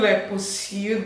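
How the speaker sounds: pursue said the Ghanaian way, slow and drawn out; slow Ghanaian-style pursue. Shown as a demonstration. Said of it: "we did pursue instead of pursue".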